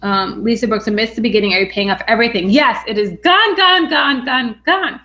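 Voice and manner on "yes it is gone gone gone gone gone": higher, louder "gone, gone"; excited gone. Real, not acted. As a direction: celebrate each "gone". Celebrating the debt being gone.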